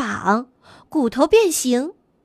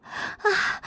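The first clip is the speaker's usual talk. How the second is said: breathless gasp; 9 dB quieter than usual. A narrator's reading. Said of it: "气喘吁吁地赶了上来".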